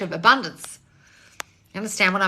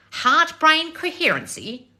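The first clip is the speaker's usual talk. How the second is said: slow, high, disbelieving echo; incredulous; 9 semitones higher, 5 dB louder, slower than usual. Real, not acted. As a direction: repeat it like you can't believe it.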